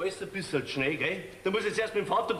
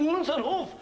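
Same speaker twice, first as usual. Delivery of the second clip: indignant outburst; 6 semitones higher than usual. Acted. Father protesting the heir to his wife, indignant cry. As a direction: throw it out, outraged about the farm.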